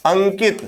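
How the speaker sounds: अंकित with ng sounded through the nose; अंकित, the dot a full nasal ng; nasal anusvara. Shown as a demonstration. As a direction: say अंकित as ankit, clear nasal before k. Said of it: "इसका उच्चारण कहाँ से होता है".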